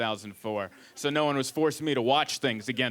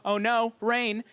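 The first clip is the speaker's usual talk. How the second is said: higher-pitched heroine dismay; mock dismay; 7 semitones higher, slower than usual. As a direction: play a dainty startled heroine. Acts out heroine caught in rain.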